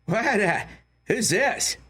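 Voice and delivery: high-pitched mock bewilderment; Norm Macdonald. Comedian answering his friend's text, high puzzled impression. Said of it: "And he would go".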